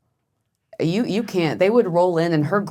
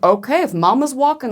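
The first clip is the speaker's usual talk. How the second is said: high-pitched, uneasy agreement; mock-alarmed going along with it; reluctantly follow, voice pitched up; nervous compliance; 9 semitones higher, 4 dB louder than usual. Nervous reply during air raid.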